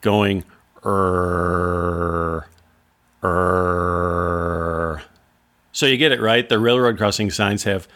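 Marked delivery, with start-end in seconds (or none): 0.8-5.0 low drawn-out err groans; filmmaker's groan. Retold or imitated. Professor's film soundtrack, imitated low groaning err. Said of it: "the filmmaker's voice going".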